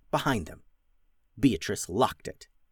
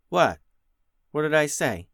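put-on confused girl; 4 semitones higher than usual. Beatrice confused.

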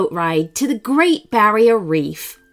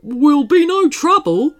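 sleepy koala voice; 5 semitones higher, 5 dB louder than usual. Acted. Koala character voice.

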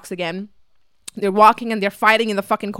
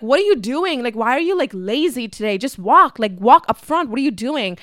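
mildly exasperated, slightly raised nagging; annoyed mom; 3 semitones higher than usual. Retold or imitated. Mom telling dad to walk up front, imitated mild annoyance. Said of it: "my mom is getting annoyed".

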